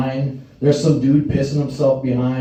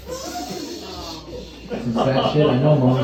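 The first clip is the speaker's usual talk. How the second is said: very slow, drawn-out mock gloom; mock sad; 3 semitones higher, much slower than usual. Comedian mourning Kermit's suicide, drawn-out mock sorrow. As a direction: drag it out like a sigh.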